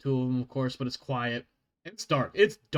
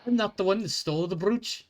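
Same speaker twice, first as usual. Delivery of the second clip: dwarf guard scolding; 4 semitones higher than usual. Acted.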